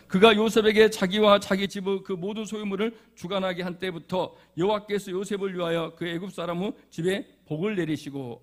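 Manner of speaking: quiet reading of a Bible verse; scripture reading. Acted. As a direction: read scripture softly, letting it fall away. Reads scripture aloud. (나직한 성경 봉독)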